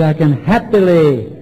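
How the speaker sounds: happily drawn out slowly; stress on happily. Real, not acted. Speaker urging acceptance to the meeting, happily stressed. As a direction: lean on happily, stretching it out. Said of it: "I emphasize that word".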